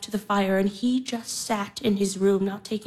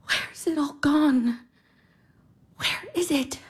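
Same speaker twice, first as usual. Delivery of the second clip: breathy, lost whisper; whispered lament; 3 semitones higher than usual. Acted. Lost sister whispering where her life has gone. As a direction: ask it into the air, barely voiced.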